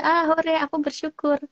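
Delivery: high, sing-song fake joy, mocking it; mock cheerful. Psychologist mocking a patient's forced gratitude, fake cheerful voice. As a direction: play it as hollow forced cheer.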